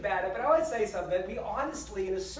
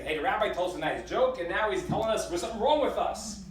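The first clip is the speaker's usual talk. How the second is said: louder imagined grumbling congregant; mock complaint; 6 dB louder than usual. Imagined listener objecting to the rabbi's message, mock complaint. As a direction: lightly voice a listener's protest.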